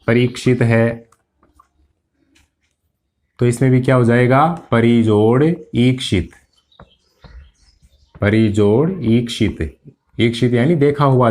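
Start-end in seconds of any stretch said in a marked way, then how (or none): 4.7-6.3 slow, deliberate split into parts; slow dictation. Shown as a demonstration. Teacher dictating the split to students, slow and deliberate. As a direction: spell it out slowly for students to write. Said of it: "teacher spells out the split".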